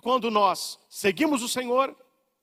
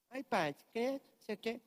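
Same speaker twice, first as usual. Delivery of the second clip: mock penitent; 3 semitones higher, 11 dB quieter than usual. Penitent giggling in confession.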